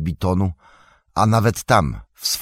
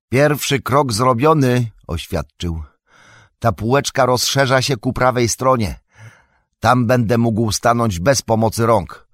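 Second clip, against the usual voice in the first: Frodo calling up from the ledge; Frodo, relieved; 6 semitones higher, 4 dB louder than usual. A narrator's reading. Frodo voiced by narrator. (Frodo woła z półki, wyżej i głośniej)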